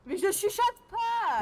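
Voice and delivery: mock yelling. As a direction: drag the words out in a mock bellow. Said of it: "Et arrête de gueuler".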